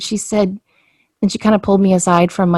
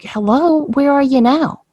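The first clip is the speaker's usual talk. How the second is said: much higher, sarcastic hello into the void; mock exasperated call; 8 semitones higher than usual. To her loved ones on the other side, a mock exasperated call. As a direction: call out to the absent spirits, fed up.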